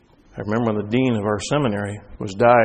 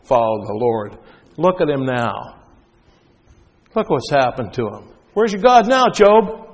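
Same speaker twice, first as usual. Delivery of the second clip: mocking neighbors. Neighbors gloating over ruined Job, mocking then shouting. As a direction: jeer at him, then shout the taunt.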